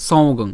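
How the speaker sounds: "সঙ্গং" with a drawn nasal before the g; careful pronunciation. Shown as a demonstration. Teacher shows how the cluster sounds, careful "সঙ্গং". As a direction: say "সঙ্গং" as song-gong, both nasals sounded. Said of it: "উচ্চারণটা কেমন হবে?".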